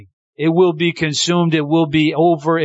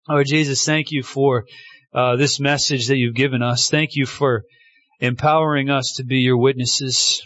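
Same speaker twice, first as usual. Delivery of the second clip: lower-pitched closing prayer; 3 semitones lower than usual. Real, not acted. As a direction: pray plainly to the Lord in thanks.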